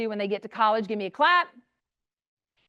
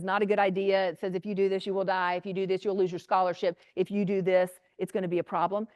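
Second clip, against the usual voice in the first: a lightly lowered, warning voice for the brain; stern brain voice; 5 semitones lower than usual. Pretend. The prefrontal cortex warning a student off, lightly lowered and stern. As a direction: warn like a cautious inner voice.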